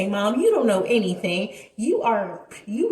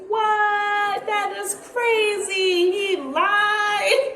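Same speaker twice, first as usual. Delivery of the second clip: shocked outcry; 10 semitones higher, much slower than usual. Retold or imitated. Bestie shocked he lied.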